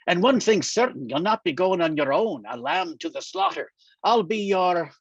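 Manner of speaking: put-on a light Scottish lilt for the old friend Angus, dryly amused; lightly voiced wry Scotsman, ribbing his pal; teasing Scottish friend. Old Scottish friend needling Daniel, light dry Scottish lilt.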